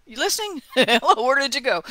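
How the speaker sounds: lightly hammed-up calling out; playful call to God. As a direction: call out like he's wandered off.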